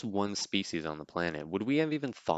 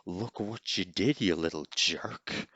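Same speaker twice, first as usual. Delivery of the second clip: Home Alone line impression; slower than usual. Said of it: "I could try and do the".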